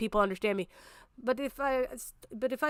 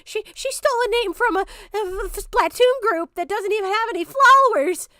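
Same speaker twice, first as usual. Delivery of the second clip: much higher, whiny mock of Levi; 10 semitones higher, 6 dB louder than usual. Streamer mocks Levi's complaint in a high whiny voice. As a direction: squeak it out like a sulky accuser. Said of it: "didn't say fucking anything other than".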